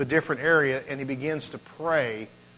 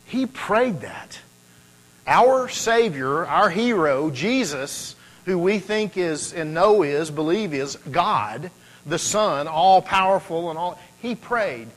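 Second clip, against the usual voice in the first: higher, louder, building emphasis on Jesus; rising preacher fervor; 4 semitones higher, 5 dB louder, slower than usual. Real, not acted. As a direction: preach it with mounting passion. Preacher rises in intensity.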